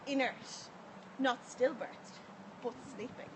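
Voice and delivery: intense rhythmic poem performance; spoken word poetry. Acted. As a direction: build and drop like slam poetry. Poem recited at open mic.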